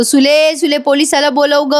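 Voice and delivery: retold shouting. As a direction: imitate a man calling out, without real volume. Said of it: "दत्त्या दादा ओरडायला लागतो". (ओरडून हाक मारण्याची सौम्य नक्कल)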